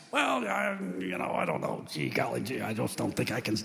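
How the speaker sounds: hesitant, hemming and hawing; mock false modesty. Would-be pastor dodging the question, falsely modest. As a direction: put on bashful, stumbling humility. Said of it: "That's false pride to act like".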